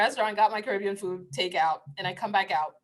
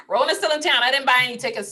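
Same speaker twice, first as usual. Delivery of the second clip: laughing repeat; 3 semitones higher, 4 dB louder, faster than usual. Real, not acted. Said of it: "repeat of the joke".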